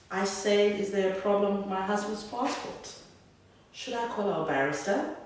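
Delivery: posh English lady insisting; lightly put-on upper-class English accent, expecting to be obeyed; most posh accent. Wife presses immigration officer about husband's passport, in a posh English accent. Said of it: "said in my most posh".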